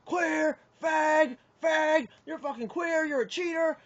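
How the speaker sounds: high-pitched imitation of angry yelling; retold yelling. Retelling strangers' abuse in a card-game hall, mock yelling. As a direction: mimic people yelling abuse across a room. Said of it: "they're screaming and yelling".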